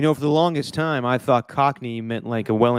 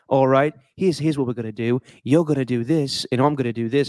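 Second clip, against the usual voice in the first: lightly hammed Cockney accent; Butcher. Host quoting Butcher from the show, mock Cockney. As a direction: lay out the plan in mock Cockney. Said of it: "He uses a Cockney accent".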